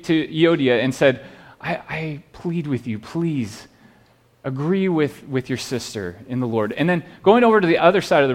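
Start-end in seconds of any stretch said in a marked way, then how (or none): 1.6-6.7 gentle pleading apostle. Retold or imitated. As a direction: plead gently with one sister, softer than the preaching. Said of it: "He's pleading with them".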